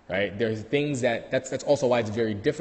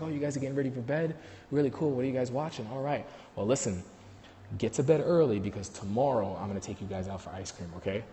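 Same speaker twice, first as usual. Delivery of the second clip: softer, easy and relaxed; calm and chill; 5 dB quieter than usual. Retold or imitated. Calm uncle talking to kids at bedtime, softer and relaxed. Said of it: "if he was calm and he came in, he was chill".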